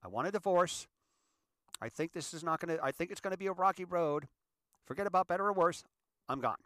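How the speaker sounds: a lightly hammed-up quitter shouting I want a divorce; mock outburst. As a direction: storm out of a marriage, hammed-up. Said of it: "Some people".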